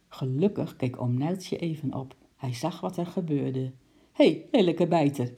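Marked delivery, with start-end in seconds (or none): 4.1-5.3 loud startled call; startled shout. Acted. Uncle calls out at the thieving penguin, startled and loud. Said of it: "riep hij geschrokken".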